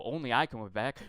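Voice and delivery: lighter mocking echo of the slogan, ending on a rise; mild mock candidate. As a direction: toss it off with a sarcastic lilt. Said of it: "the second thing was".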